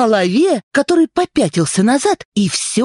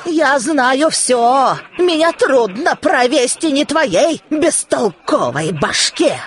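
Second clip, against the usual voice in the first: scolding woman; 3 semitones higher than usual. Acted. Sister-in-law scolds the head.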